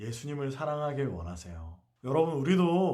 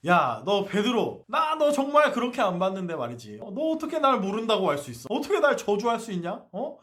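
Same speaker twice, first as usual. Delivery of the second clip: rebuking; 5 semitones higher, 4 dB louder than usual. Retold or imitated. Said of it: "이렇게 날 책망하실까".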